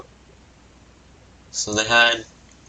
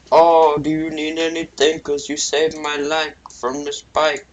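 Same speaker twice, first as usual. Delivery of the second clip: grateful elephant; 6 semitones higher than usual. Acted. Rescued elephant eagerly offering help, higher cartoon voice.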